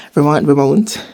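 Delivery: first "Vermont" as ver-MAHNT, second as ver-MOUNT; Vermont said two ways. Shown as a demonstration. Vlogger tries both versions, "Vermont" as ver-MAHNT then ver-MOUNT. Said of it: "are the same thing".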